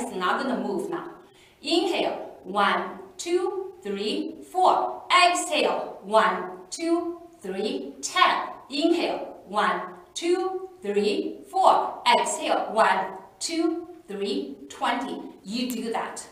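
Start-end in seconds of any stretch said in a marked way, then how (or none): 1.6-8.5 counting slowly through each breath; paced inhale and exhale count. Shown as a demonstration. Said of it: "So let's just do that". 8.7-15.2 counting slowly through each breath; paced inhale and exhale count. Shown as a demonstration. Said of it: "So let's just do that".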